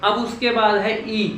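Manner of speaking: ordinary talk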